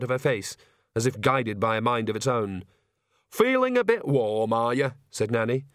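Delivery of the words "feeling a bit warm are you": put-on old witch voice. Nanny Ogg's spoken lines.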